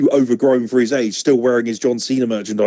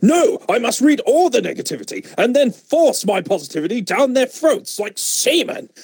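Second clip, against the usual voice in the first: much higher mocking fanboy voice; 9 semitones higher than usual. Mocking a fan forcing positivity on others, high mock voice. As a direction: parody a preachy fan in a high voice. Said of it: "It's just".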